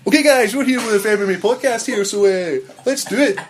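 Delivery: hammed-up broadcaster voice, pitched high; loud laughing announcer impression; low harsh voice. Shown as a demonstration. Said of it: "let's see your best".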